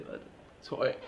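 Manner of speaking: whispered mock question; מה אתה צועק? whispered with no voice; hushed repeat. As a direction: drop it to a whisper, teasing. Same question repeated in a hush.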